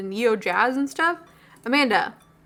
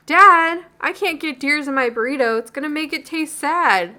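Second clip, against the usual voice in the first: laughing, teasing, a touch higher; laughing protest; 4 semitones higher, 4 dB louder than usual. Acted. Daughter laughing as she teases her teary dad. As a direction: giggle the complaint at dad.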